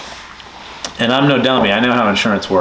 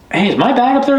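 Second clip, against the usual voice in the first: imitated question; 14 semitones higher than usual. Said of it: "I'm like".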